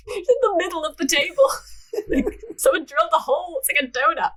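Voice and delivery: laughing through the words, high and fast; giggling high and quick in disbelief. Real, not acted. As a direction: crack up while reading. Amused at the odd table.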